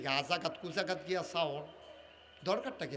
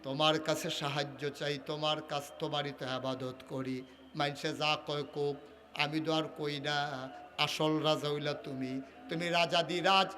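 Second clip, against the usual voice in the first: king's humble prayer; 3 semitones lower, 3 dB quieter than usual. Acted.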